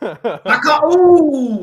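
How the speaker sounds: loud, high burst at a near goal; near-miss shout. Real, not acted. Two mates watching the match shout at a near goal, excited. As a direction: yell out as the shot nearly goes in.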